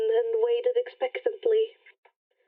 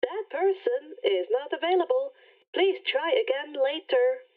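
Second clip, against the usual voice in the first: automated message. Acted. Rainbow rejects again.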